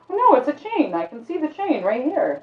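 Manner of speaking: high, loud denial; high disbelieving protest. Acted. Stranger insisting to the librarian it's a chain, high denial. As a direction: brush him off, sure of what he sees. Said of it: "There's words".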